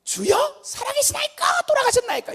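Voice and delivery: very high, loud hammed-up wail; desperate mock prayer. Believer whose trouble worsens questions God, high mock wailing. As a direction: imitate a believer crying out to heaven. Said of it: "정세가 더 심해지면 뭐라고 그러는".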